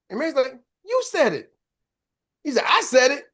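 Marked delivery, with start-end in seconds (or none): 0.8-1.5 high-pitched mock comeback; imitated accusation. Coworker answering the speaker who denies it, mock accusing. Mary accuses Frank in retold dispute. 2.7-3.2 higher, louder imitated echo; mock disbelief. Accused speaker answering the coworker, mock disbelief.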